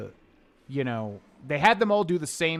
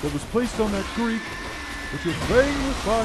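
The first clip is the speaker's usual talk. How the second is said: character voice; 7 semitones higher than usual. Retold or imitated. Quoting game character lines.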